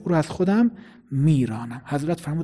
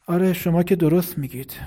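calm, cutting agreement. Acted. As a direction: agree without raising your voice, meaning to sting.

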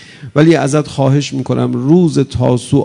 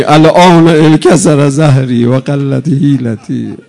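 loud, slow lament, voice straining; anguished cry; 6 dB louder than usual. Retold or imitated. Zeinab crying out to Hussein in loud grief. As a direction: cry out slowly in grief, holding each word. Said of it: "خودش فریاد زد".

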